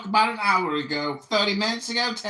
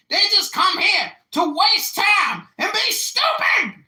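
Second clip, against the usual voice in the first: shouting; 7 semitones higher, slower than usual. Real, not acted. Ranting about the room.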